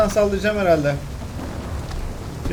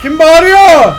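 startled shout; 7 semitones higher, 12 dB louder, much slower than usual. Real, not acted.

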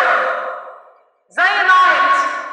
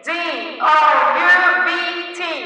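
spelled slowly; much slower than usual. Shown as a demonstration. Teacher repeating the spelling slowly to the class. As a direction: call out each letter slowly. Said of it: "تاني".

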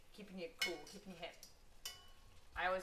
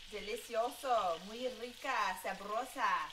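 excited praise; 2 semitones higher, 5 dB louder, slower than usual. Acted. Raving about the steaks in Spanish.

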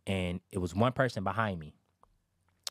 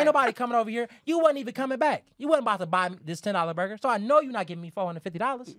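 higher and louder, hammed-up suspicion; mock indignant rant; 11 semitones higher, 5 dB louder, faster than usual. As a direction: rant like the seller sure he's scammed. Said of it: "the attitude he had".

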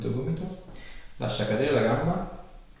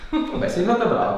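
laughing praise; 12 semitones higher, 6 dB louder than usual. Real, not acted. Therapist laughs after the manipulation.

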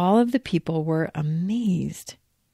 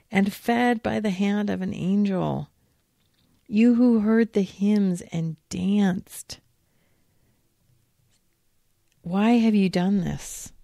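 stern priest rebuke; 3 semitones higher, 3 dB louder than usual. Acted. Priest confronts pregnant Mary.

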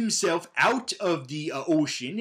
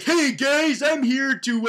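mock shouted greeting; 8 semitones higher, 4 dB louder, slower than usual. J K Simmons character bursts in.

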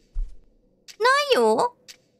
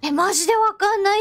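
frantic; 8 semitones higher, much faster than usual. Real, not acted. Stuck searching for anomaly.

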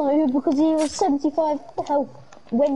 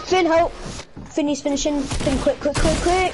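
urgent call for help; 3 semitones higher than usual. Real, not acted. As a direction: yell for help, hurried. Calling teammate for help.

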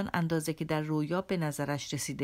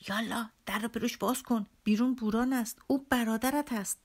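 شیطان تمسخرگر؛ صدای زیرتر و ریشخندآمیز شیطان؛ مهمان شیطانی با نیش و اصرار؛ شیطان رو به ایوان، تمسخرآمیز; 5 semitones higher than usual. Acted.

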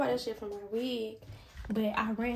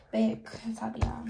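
whispered aside. Real, not acted. Signing off to viewers.

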